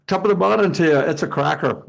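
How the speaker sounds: lightly put-on Irish accent, half-hearted. Panelist trying out an Irish accent on the call, playful. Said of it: "is that a good Irish accent there".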